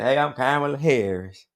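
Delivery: slightly high mock Southern accent; Kamala Harris Southern accent. Commentator copying a streamer's impression, mock Southern accent. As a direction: echo a put-on Southern accent. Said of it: "Did you hear his black Southern accent?".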